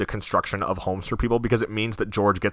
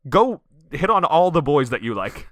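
high-pitched, louder defensive snap; mock defensive outburst; 5 semitones higher, 3 dB louder than usual. Mary to Violet about her crush on George, mock defensive. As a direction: imitate a defensive girl telling off a rival. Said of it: "she's kind of defensive".

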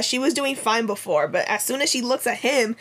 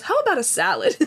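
much higher, mocking voice; mock suggestion; 11 semitones higher, faster than usual. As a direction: squeak out the suggestion in mock imitation. Mocking a character's unwelcome suggestion.

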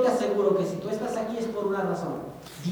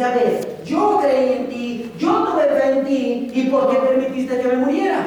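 indignant complaint. Acted. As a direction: confront God for letting him die. Dead man complaining to God. (reclamo indignado, fuerte y lento)

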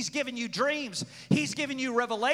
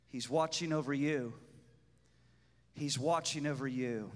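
soft, low, tender reverence; hushed worship; 9 semitones lower, 8 dB quieter than usual. Acted. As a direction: murmur it reverently.

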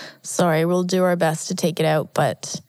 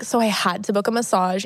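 mock voice. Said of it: "Because it sounds like".

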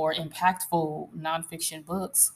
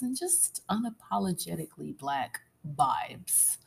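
whisper; 6 dB quieter than usual. Acted. Savoring list of show qualities.

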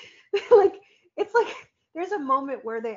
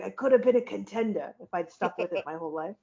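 a light Brando impression; hint of a famous movie line delivery; Marlon Brando. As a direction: lightly imitate an actor's classic line. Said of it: "my best Brando im-, impression".

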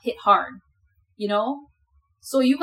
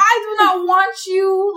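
disgusted; 9 semitones higher, 7 dB louder, slower than usual. Retold or imitated. Acting disgusted reaction to partner.

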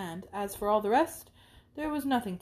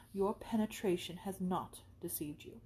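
confiding whisper; 7 dB quieter than usual. Acted. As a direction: breathe it like a secret. Isabella confides to Catherine.

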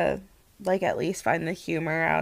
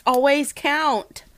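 laughing pun; 5 semitones higher, 3 dB louder than usual. Real, not acted.

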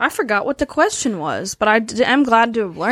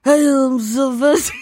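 drifting into a Brando mumble; accidental Marlon Brando; 2 semitones higher than usual. Acted. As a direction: slip into Brando by mistake. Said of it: "I turned into Marlon Brando".

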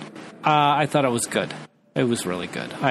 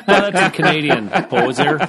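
laughing; 4 dB louder than usual. Real, not acted. Laughing realization.

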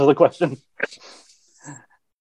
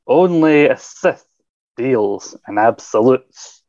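slow, drawn-out movie-actor read; a lightly hammed slow actor voice; put-on actor voice; slower than usual. Shown as a demonstration. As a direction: stretch it out like a grand actor. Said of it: "I've started doing that voice now".

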